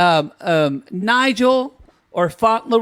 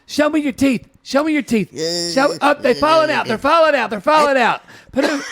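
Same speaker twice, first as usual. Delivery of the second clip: higher Darcy voice; playing Darcy; 7 semitones higher than usual. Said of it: "playing Darcy".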